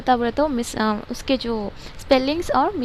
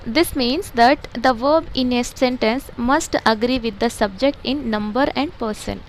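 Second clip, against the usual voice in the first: slow textbook reading; much slower than usual. Shown as a demonstration. Teacher reading the textbook aloud to pupils, slow and deliberate. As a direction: read each English word slowly and evenly, like dictation.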